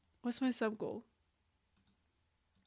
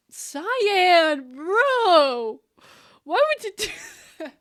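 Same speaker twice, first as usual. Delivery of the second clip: loud, high, emotional protest; overwhelmed outcry; 7 semitones higher, 9 dB louder, much slower than usual. Real, not acted. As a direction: cry out, deeply moved. Chat moves her to tears.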